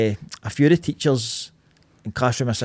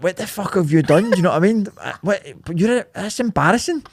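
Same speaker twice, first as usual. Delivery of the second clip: retold telling-off; 9 semitones higher, 4 dB louder than usual. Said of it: "she's like".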